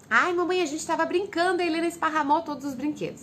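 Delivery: complaining daughters. Retold or imitated. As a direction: whine it like a little girl. Daughters complain to their mother.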